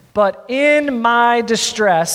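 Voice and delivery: slow, weighty verse reading; emphatic scripture reading. Real, not acted. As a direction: draw out each word for the congregation. Reads verse emphatically to congregation.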